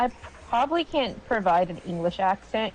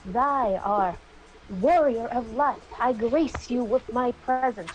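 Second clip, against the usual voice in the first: put-on Old English goddess; slower than usual. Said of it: "she speaks in, like, Old English".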